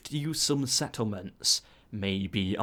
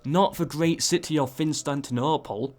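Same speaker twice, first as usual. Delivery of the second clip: higher, louder sudden realisation; excited alarm; 5 semitones higher, 3 dB louder than usual. Real, not acted. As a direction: call it out as the big news breaks. Commentator spots the emperor leaving.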